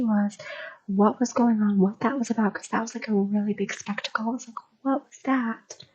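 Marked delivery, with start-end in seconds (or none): 4.8-5.8 whispered wonder. Retold or imitated. She wonders to herself.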